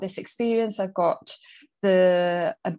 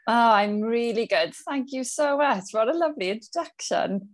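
welsh valleys accent; 4 semitones higher than usual. Real, not acted. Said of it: "you can tell by her, uh, accent, we are both Welsh".

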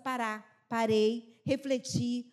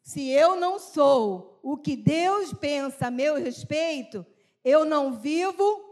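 slow repeated reading; 7 dB louder, slower than usual. Shown as a demonstration. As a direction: say it again slowly with the group. (repetição lenta e firme)

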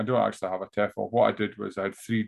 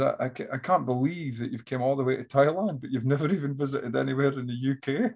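lightly voiced, higher amazed American; American guy; 3 semitones higher than usual. American guy amazed at a traveller, lightly mimicked incredulity. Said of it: "this American guy was like".

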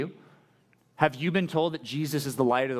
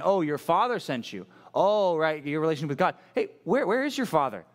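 sarcastic, sing-song jab; a hint of a sneering taunt; mocking taunt; 3 semitones higher than usual. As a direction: poke fun at him, rising on "where". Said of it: "they're actually making fun of him".

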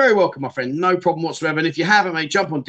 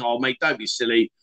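gentle teasing; 5 semitones lower, 4 dB quieter than usual. Shown as a demonstration. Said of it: "in English, it would be like saying".

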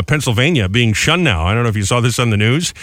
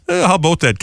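mock Canadian "about"; Canadian accent; 4 semitones higher than usual. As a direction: ask it with a put-on Canadian accent.

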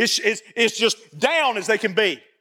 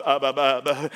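nervous mumbling; 11 semitones lower than usual. Retold or imitated. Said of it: "He started mumbling".

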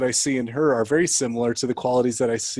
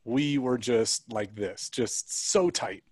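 tender; much slower than usual. Real, not acted. Tender memory of bond.

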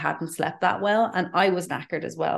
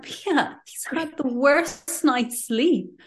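husband's reply; 8 semitones higher, much slower than usual. Retold or imitated. Husband defends tired son.

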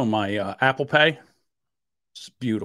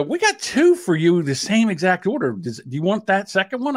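drive-thru worker; 4 semitones higher than usual. Retold or imitated. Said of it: "and they go".

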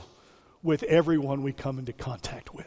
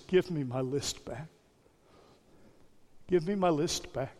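softer, choked-up plea; husband asking his wife for the list back, quietly tearful; 7 dB quieter than usual. Retold or imitated. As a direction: give it back quietly, near tears. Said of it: "quietly and tearfully says".

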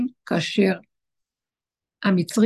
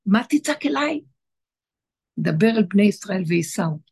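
voice of God. Retold or imitated. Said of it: "אז השם אומר לו".

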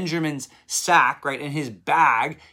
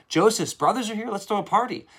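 high, delighted exclamation; thrilled at the news, throw it up high; excited Pharaoh; 9 semitones higher, 4 dB louder than usual. Acted. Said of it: "and he's like".

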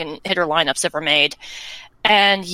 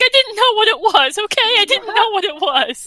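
a hint of a higher, exasperated friend; lightly voiced defensive friend; 13 semitones higher than usual. Friend explaining why he moved there: mildly defensive, higher. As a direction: defend yourself, a bit put out.

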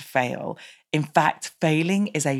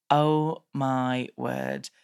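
very slow, drawn-out dawning thought; retold stunned disbelief, stretched out; stunned realisation; 2 semitones lower, much slower than usual. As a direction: let it sink in slowly, word by word. Retelling her stunned realisation.

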